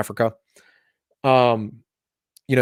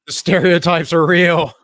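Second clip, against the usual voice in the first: mock surprise; 4 semitones higher, 4 dB louder, slower than usual. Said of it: "and I'm just like".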